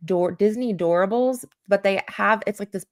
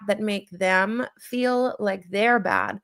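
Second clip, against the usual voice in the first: ordinary talk, nothing marked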